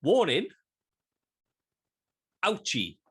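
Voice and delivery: high mock TV warning; mock doctors' warning. Mimicking the two doctors' silly warning. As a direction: announce it like a cartoon alarm. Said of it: "these two doctors goes".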